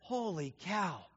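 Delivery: a dentist gasping at a black eye. Retold or imitated. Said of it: "and he says".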